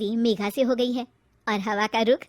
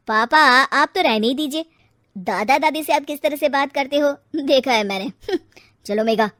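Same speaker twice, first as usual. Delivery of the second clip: defiant rebuke; 6 dB louder than usual. Acted. Son rebukes father.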